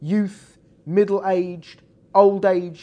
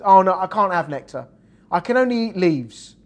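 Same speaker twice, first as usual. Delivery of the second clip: louder, a touch of regret; caterpillar voice; 5 dB louder than usual. Acted. Caterpillar telling the butterfly he can't have nectar, louder and rueful. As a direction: protest that leaves are all you can eat.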